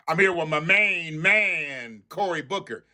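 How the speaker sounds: slow, drawn-out mock intro; lightly imitating a smooth politician; drawling parody of a hype introduction; mocking the congressman. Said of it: "you wanna nigger it up".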